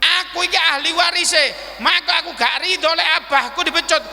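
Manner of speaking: high, insistent daughter's objection; acted indignant protest; protesting Fatimah. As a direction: stand up for your father indignantly. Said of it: "Apa kata Sayyidah Fatimah".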